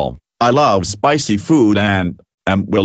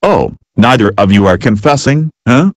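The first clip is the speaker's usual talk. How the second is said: angry shout; 2 semitones higher, 6 dB louder than usual. Acted. Parent scolding kids who won't confess.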